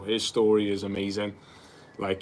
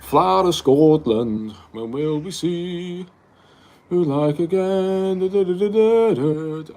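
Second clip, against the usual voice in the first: halting, high, slow bad Scottish accent; slow, sing-song, clumsy Scottish accent attempt; 8 semitones higher, 4 dB louder, slower than usual. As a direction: have a go at a Scottish accent and fumble it. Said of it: "I can't do the accent".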